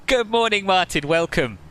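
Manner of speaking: a hammed-up Aussie welcome; attempted Australian accent. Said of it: "My Australian is not one of my top accents".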